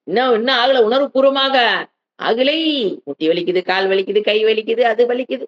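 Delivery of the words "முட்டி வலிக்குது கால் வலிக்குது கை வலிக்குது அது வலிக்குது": sing-song list of aches, steadily climbing; mock complaining. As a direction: imitate a grumbler reeling off pains. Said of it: "எதுக்கு புலம்புறது?".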